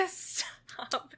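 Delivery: whispered stop through a laugh. Real, not acted. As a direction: hush it under a giggle. Laughing, telling friend to stop.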